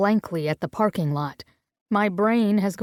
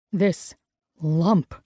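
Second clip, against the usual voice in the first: a mild cursing edge on the words; like a curse; 4 semitones lower than usual. Acted. Gray finding the lump on Ivy, a light curse. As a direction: spit it out like a swear, understated. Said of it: "The word comes out like a curse".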